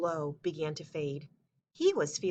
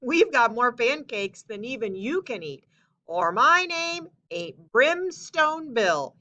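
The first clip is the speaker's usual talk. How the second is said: high, loud boast, slowing at the end; boastful Bill; 5 semitones higher, 5 dB louder than usual. Acted. Brimstone Bill boasting to hungry Paul, high and loud. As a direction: brag like a tall-tale logger. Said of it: "The man laughed".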